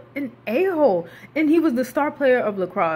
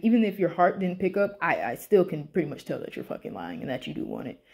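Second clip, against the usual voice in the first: knowing villain; 4 semitones lower than usual. Retold or imitated. Voicing Peter calling out Styles.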